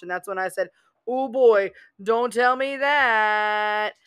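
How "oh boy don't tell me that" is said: mock dread. Mock dread at free rein.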